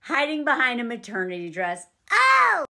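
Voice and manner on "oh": loud, high gasp of delight; high surprised oh. Real, not acted. Viewer gasping at the insult, high loud oh. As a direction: react like a burn just landed. Reacting to the burn.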